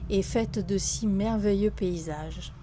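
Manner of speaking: solemn, heartfelt declamation with long pauses; poem recitation. Acted. Author reciting a love poem to France, solemn declamation. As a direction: recite it as an ode, phrase by measured phrase.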